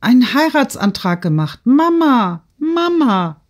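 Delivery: high, loud calls to mother; excited. A narrator's reading. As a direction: blurt the news, then cry out to her. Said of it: "Natalie kam aufgeregt".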